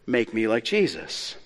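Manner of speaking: acted preacher's soft, low counsel; quiet correction. Preacher stopping the drunk man's prayer, quiet low correction.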